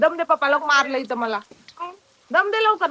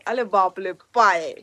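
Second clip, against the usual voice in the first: slow, low, drawn-out अरे बापले; mock amazement; 8 semitones lower, 3 dB louder, slower than usual. Mother praising her baby, slow mock awe. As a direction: stretch it out in playful awe.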